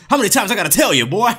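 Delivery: mock military announcer nagging the player; Graves announcer impression. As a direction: bark the order like the Graves announcer.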